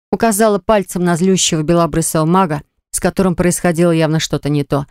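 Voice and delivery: plain reading voice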